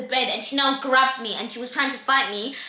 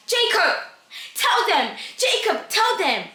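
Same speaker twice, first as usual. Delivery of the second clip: higher-pitched, falling urgent calls; insistent pleading; 4 semitones higher, slower than usual. Retold or imitated. The girl urging Jacob to confess, insistent. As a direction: imitate her pressing him to speak.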